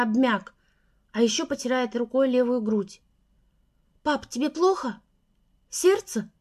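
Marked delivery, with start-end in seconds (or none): 4.0-6.3 anxious rising question; worried daughter asks fast; frightened. A narrator's reading. Daughter frightened for her father. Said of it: "испугалась я".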